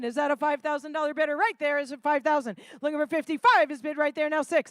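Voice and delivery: quick bid calling; auctioneer. Acted. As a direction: push the room for bids. Live charity auction calling.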